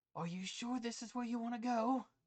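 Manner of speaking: very high-pitched stage whisper. Voicing a character who tries to whisper yet be heard: loud whisper. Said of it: "it's like he's trying to whisper, but at the same time trying to speak up".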